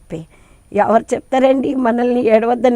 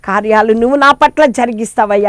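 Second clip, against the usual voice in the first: fervent pleading prayer; 4 dB louder than usual. Acted. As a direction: plead like a struggling mother at his feet. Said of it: "అని ఎప్పుడైతే ఆయన పాదాలు పట్టుకుంటావో". (దేవునికి బిగ్గరగా వేడుకోలు)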